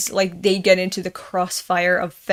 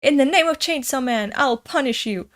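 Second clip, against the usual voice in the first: heroic declaration; 5 semitones higher than usual. Acted. Voicing heroic manga catchphrase.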